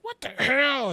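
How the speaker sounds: high, loud exclamation; retold angry outburst. Acting out the man rushing to the bathroom, loud outburst.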